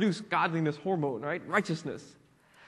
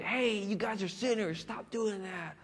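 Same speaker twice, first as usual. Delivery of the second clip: mock yell; 3 semitones higher, 7 dB quieter, slower than usual. TV Christians scolding sinners, imitated mock yell. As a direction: draw out a half-hearted preachy holler without volume. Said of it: "they always like to yell at people".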